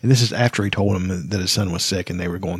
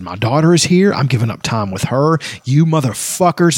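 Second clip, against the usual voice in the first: retold angry yell; 3 semitones higher than usual. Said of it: "started screaming at him".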